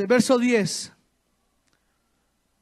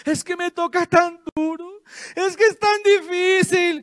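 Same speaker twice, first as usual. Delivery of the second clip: mock victim whine; 4 semitones higher than usual. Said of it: "pobrecitos, victimizados ellos".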